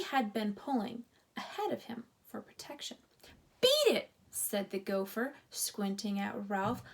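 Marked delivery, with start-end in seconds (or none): 3.6-4.1 gruff order. A narrator's reading. Gopher orders mouse out.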